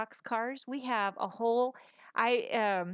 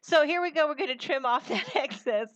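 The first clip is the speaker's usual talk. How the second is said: put-on Boston accent; 5 semitones higher, 5 dB louder than usual. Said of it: "New York or my Boston accent".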